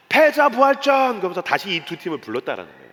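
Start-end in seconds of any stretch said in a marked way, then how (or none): 0.1-1.2 high, loud, drawn-out announcer call; imitated show announcement. Judge revives two eliminated teams, imitated show announcement. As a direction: proclaim it slowly like a big TV reveal.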